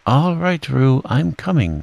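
high, urgent calling out; Christopher Robin's call. A narrator's reading. Christopher Robin hurrying to rescue Roo, calling out. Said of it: "called Christopher Robin".

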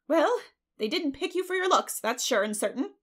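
high, loud, emphatic verdict; blunt busybody pronouncement. A narrator's reading. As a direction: punch out the judgment from up high. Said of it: "was Missus Rachel Lynde's emphatic comment".

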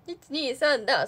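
slow, loud count for the crowd. Retold or imitated. Cueing the audience like an emcee, slow and loud. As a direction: drag out the count like a host. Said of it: "そういう系だよね".

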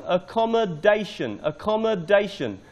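"accommodation" twice, the DA syllable stressed; stress on fourth syllable. Shown as a demonstration. Teacher recording pronunciation feedback, stressing fourth syllable. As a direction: hit DA in "accommodation", repeating it for learners. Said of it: "The stress is on the fourth syllable".

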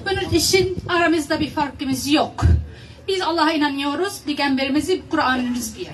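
Arabic-accented, halting broken Turkish; foreigner broken Turkish. Real, not acted. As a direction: speak Turkish as a non-native Arabic speaker. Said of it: "benim Türkçem çok iyi değil".

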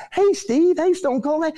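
high eager hello; excited greeting. Retold or imitated. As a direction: call out like a thrilled fan. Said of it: "I was excited".

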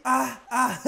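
short mock moans; acted moaning. Drifting castaway after the wreck, moaning. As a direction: let out two breaks of moaning. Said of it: "sorry for the moaning".

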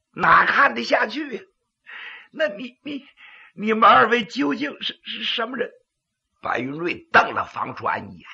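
pingshu storytelling narration; dramatic Chinese storyteller; gravelly dramatic storyteller. A narrator's reading.

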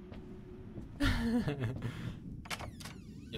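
long high-pitched giggle; high squealing laugh. Real, not acted. Streamer cracking up at his own joke, high squeal.

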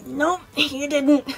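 strained, drawn-out reassurance; wincing. Acted. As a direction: reassure a child while hurting a little. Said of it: "wincing a bit".

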